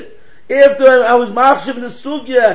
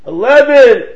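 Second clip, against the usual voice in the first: loud, higher one-word yell; arguing shout; 4 semitones higher, 9 dB louder than usual. Retold or imitated. One of two guys arguing at each other, shouting. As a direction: fire it off like a stubborn arguer. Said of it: "he heard two guys arguing".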